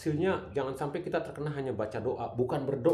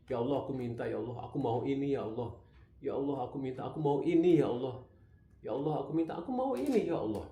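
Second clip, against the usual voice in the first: pleading prayer; faster than usual. Shown as a demonstration. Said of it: "Jadi saya".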